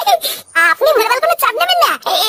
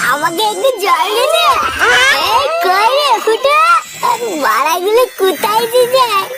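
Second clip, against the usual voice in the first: put-on drunken slur; slower than usual. Drunk owner calls for water.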